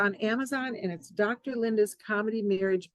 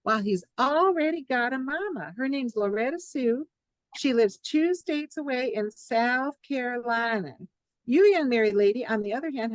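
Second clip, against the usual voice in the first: put-on Southern accent; 3 semitones higher than usual. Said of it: "much more charming with a Southern accent".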